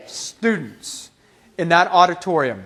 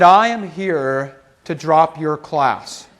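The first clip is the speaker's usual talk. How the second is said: slow, lowered, deliberate declaration; deliberate announcement; 4 semitones lower, slower than usual. Retold or imitated. Student tells professor he is dropping her class, deliberate. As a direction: announce it slowly and firmly.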